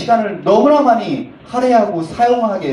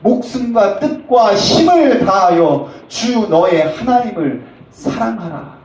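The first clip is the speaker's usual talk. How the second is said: very slow, weighty recitation; slow, solemn scripture reading; solemn scripture quote; 4 dB louder, slower than usual. Acted. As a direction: intone the Lord's command. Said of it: "우리 주님 말씀하시기를".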